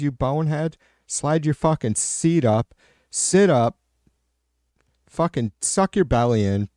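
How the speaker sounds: imitating dad chewing out his son at the wheel; mock lecture. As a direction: rattle off orders at a bonehead kid. Lecturing son on driving posture.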